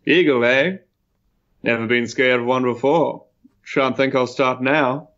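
lightly voiced unafraid braggart; nonchalant adventurer. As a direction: toss it off as a casual boast. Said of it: "blows a smoke ring and says".

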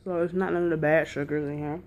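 talking with mouth full; words around a mouthful of snack. Real, not acted. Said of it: "I'm sorry if I'm eating my mouth full".

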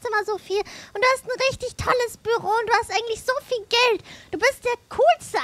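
fawning flattery; laying on the praise thick; sucking up. Acted. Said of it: "Das tat mir sehr weh, so zu schleimen".

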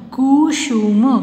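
कुसुम slow, each syllable drawn out. Shown as a demonstration. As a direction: sound out कुसुम in pieces. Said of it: "sound pronounce करके देख लीजिए". (कुसुम को तोड़-तोड़ कर, धीरे)

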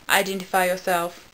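level, toneless Dalek order; flat Dalek voice. Acted. Dalek demanding the intruder's identity, flat voice. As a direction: say it evenly, without feeling. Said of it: "said in a flat, emotional voice".

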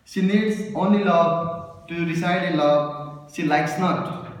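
measured love poem, drawn-out phrases; poetry recital. Acted. Poet reciting to the lovers present, measured recital. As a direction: recite line by line, pausing after each image.

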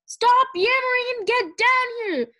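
high, loud furious roar in a changed voice; an angry teacher roaring to stop her pupil's chatter. Acted. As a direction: roar him down to cut off his rambling. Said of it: "Kestrel roared".

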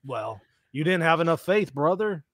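a hint of a folksy preacher; lightly voiced pastor scolding a lost believer; Pastor Bob voice. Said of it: "your Pastor Bob voice".

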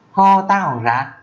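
"Ho tăng ỏng rác" hơi cao, chậm vừa; nhắc lại nhanh hơn chút; Mường phrase. Shown as a demonstration. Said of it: "thì là". (câu Mường lên cao, chậm vừa)

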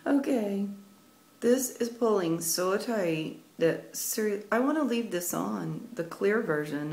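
soft, lips held still by a drying mask; stiff face mask. Real, not acted. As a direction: mumble with a frozen face. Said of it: "I can't move my mouth".

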